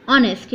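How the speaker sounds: "honest" starting on the O vowel; silent H. Shown as a demonstration. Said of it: "the right pronunciation of this word".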